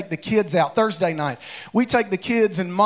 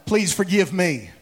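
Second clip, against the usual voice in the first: sincere plea; 4 semitones lower than usual. Shown as a demonstration. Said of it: "Look at your other neighbor and tell 'em".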